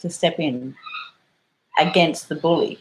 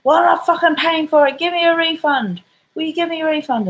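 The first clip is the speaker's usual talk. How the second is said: high, louder grumbling bogan; hammed-up demanding customer; mock bogan; 12 semitones higher, 3 dB louder than usual. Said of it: "they're like".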